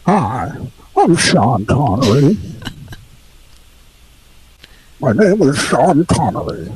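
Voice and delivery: lightly filtered Scottish actor voice; slow Scottish film star; Sean Connery. Pretend. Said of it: "a little bit like Sean Connery".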